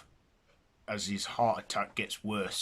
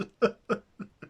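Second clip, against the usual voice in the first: sob; 12 semitones higher, 4 dB louder than usual. Acted. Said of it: "As he starts to cry".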